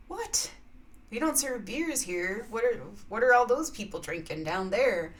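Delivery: acted disbelief, lightly indignant; mock incredulous. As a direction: play a bear who can't believe it. Bear reacts to being refused.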